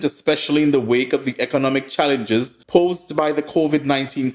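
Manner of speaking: formal read-out of a statement; measured bulletin delivery; news release read. Acted. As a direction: read it like an official press release. Reading out a press release.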